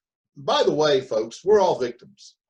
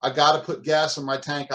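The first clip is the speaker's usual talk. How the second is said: grudging gotta; 3 dB louder than usual. Shown as a demonstration. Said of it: "difference between those two thought processes".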